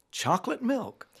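put-on "Chocolate milk" sung out high in an English accent; English accent misheard. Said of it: "he thinks Eric says".

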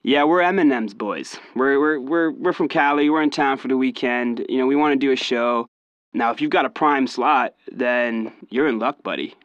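swagger it like a fake Cali rapper; lightly put-on American bravado; cocky American accent. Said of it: "it kinda went something like this".

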